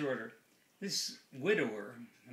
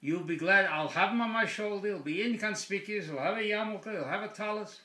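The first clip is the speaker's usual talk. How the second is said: higher-pitched, eager sales pitch; insistent persuading; 5 semitones higher, 3 dB louder than usual. Acted. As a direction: plead the bird's case to the rabbi. Widower pleads with the rabbi.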